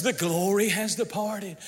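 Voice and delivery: a touch of whining defeat; mock despairing church. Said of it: "It's almost like the church says".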